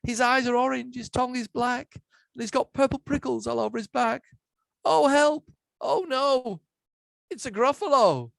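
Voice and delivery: high-pitched storybook alarm, building to a cry; panicked Mouse. Acted. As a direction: recite the monster's features in rising horror. Mouse meets the real monster.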